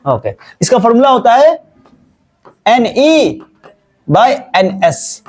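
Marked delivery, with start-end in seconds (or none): 2.7-5.2 slow dictation. Shown as a demonstration. Teacher dictates formula.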